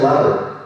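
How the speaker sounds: "ladder" with one quick tongue tap in the middle; single tap. Shown as a demonstration. Teacher comparing "ladder" to a single-tap R. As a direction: flick the middle of "ladder" once. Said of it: "that's a single tap with the tongue".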